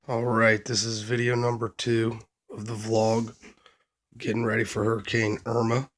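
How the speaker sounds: hoarse from a cold; scratchy, worn voice; raspy voice. Real, not acted. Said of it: "I'm sorry about the raspy voice".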